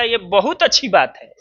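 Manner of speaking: mock praise with a stretched "बहुत"; sarcastic. Shown as a demonstration. Teacher mocking students who barely study, sarcastic. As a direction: say "बहुत अच्छी बात है" as ironic approval. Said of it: "एकरा के व्यंग कहल जाला का?".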